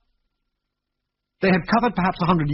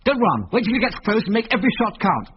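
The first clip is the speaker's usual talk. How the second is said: higher, tense commands; urgent orders; 9 semitones higher than usual. A narrator's reading. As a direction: keep him steady under threat. Urgent orders facing bear.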